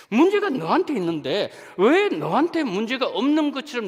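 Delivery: acted rebuke. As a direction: throw the blame back, high and forceful. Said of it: "이 말씀이거든요". (하나님이 나무라듯 높고 큰 소리로)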